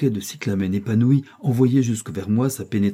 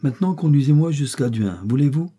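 haughty princess; 5 semitones higher than usual. Acted. Princess giving orders to the man she takes for a boatman, haughty.

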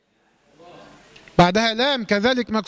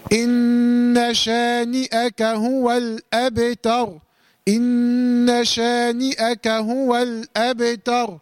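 slow recitation; much slower than usual. Shown as a demonstration. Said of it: "final recitation".

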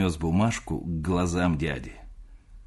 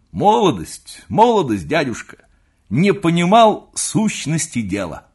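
high, slow mocking quote of the uncle; young nephew parodies his uncle's old lecture, high and slow; 9 semitones higher, 8 dB louder, slower than usual. High mock lament.

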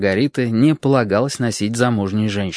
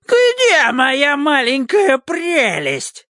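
longshoreman's roar; much slower than usual. Acted. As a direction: boom it through the house. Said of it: "рёвом портового грузчика".

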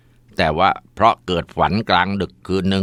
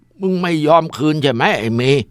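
angry shout; 8 semitones higher than usual. Acted. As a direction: bellow at the son as the angry father. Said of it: "ตะหว่าเสียงดัง".

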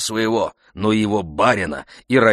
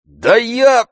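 nervous coachman; 9 dB louder than usual. A narrator's reading. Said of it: "несколько струсив".

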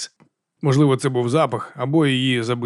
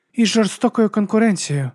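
higher, dry sardonic woman; Baptiste's voice; 9 semitones higher than usual. Acted. Baptiste adds her wry remark to Diaz, higher and dry. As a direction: toss it off wryly, pitched up.

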